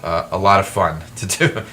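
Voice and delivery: dry sarcastic aside with a little laugh; wry, mock-cheerful remark about a chore. Real, not acted. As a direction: say it meaning the exact opposite. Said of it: "I'm saying that sarcastically".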